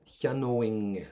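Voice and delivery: cheanóing drawn out slowly, ending in "ing"; slow model of cheanóing, ringing "-ing" at the end. Shown as a demonstration. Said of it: "we're gonna get an I N G sound at the end of it".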